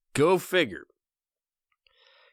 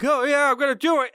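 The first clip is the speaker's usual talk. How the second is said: high, gushing fan voice; mock eager fan; 10 semitones higher, 3 dB louder than usual. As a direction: play a starstruck follower. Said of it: "they'll be like".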